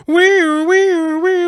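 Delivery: high, loud mock ambulance siren; imitated siren wail. Waking up in the ambulance.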